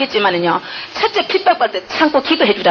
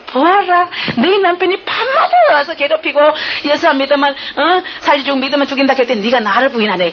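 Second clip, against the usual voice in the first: raised, solemn voice of the Lord speaking; retelling a vision, she voices Jesus, raised and solemn; 4 semitones higher than usual. Retold or imitated. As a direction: speak as Jesus rebuking gently, pitched up. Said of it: "그 장면을 딱 보여주시는 거예요".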